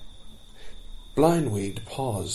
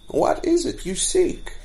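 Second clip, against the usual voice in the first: gentler voice; 10 semitones higher than usual. Acted. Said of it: "in a gentler voice".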